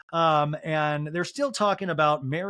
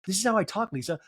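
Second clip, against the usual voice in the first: imitated high, defensive voice; high-pitched protest; 4 semitones higher, faster than usual. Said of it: "It's too high for my hearing".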